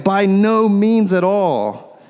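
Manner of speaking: slow, deliberate denial; measured, emphatic no, words drawn out; strong negative. Retold or imitated. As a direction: spell out the refusal slowly. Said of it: "a strong negative".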